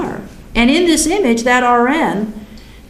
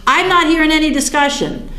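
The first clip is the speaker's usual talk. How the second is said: mock indignant; 5 semitones higher than usual. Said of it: "I was ticked off".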